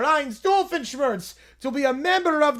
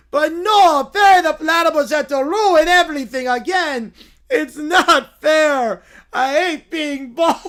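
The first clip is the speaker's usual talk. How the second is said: Caillou wail; 3 semitones higher, 7 dB louder than usual. Acted. Caillou crying out.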